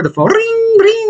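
high sing-song ring ring; playful high-pitched ring ring; phone ring imitation. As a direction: mimic a phone ringing, high.

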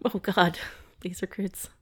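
awed whisper; hushed, breathy awe. Real, not acted.

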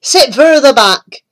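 a hint of a vain toad; lightly voiced boastful toad. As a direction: show off proudly. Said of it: "he said".

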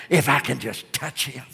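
soft, low inward hope; inner voice. Acted. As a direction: say it only to yourself. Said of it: "she kept saying within herself".

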